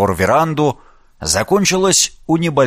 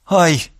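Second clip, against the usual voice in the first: cry of pain; 5 semitones higher than usual. A narrator's reading. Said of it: "зашипела от боли".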